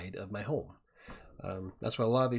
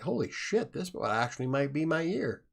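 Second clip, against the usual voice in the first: excited; 4 semitones higher than usual. Retold or imitated. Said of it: "It's like".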